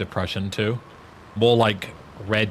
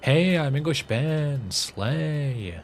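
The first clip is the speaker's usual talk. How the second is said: lightly put-on English accent, slower, higher; a hint of a posh English lad introducing himself; fake English accent; 6 semitones higher, much slower than usual. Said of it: "when I talk like this, I'm putting on an, a-, an accent".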